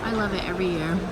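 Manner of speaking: high, soft cooing. Real, not acted. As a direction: gush softly. Admiring decorations.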